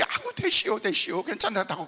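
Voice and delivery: a church elder brushing it off in Chungcheong speech; Chungcheong-accented older woman saying no need to come; Chungcheong dialect. Retold or imitated. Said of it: "충청도 말 가운데 대시우는".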